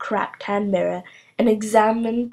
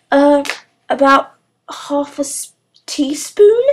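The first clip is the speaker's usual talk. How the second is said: hasty; 6 semitones higher, 7 dB louder than usual. A narrator's reading. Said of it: "said Sharkadder hastily".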